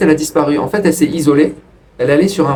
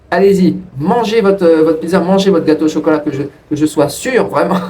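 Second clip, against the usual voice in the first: mock bossy order; 2 semitones higher than usual. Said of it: "je vais dire, écoute".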